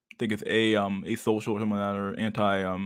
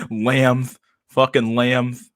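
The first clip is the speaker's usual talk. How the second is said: loud amused call; 3 semitones higher, 6 dB louder, much slower than usual. Real, not acted.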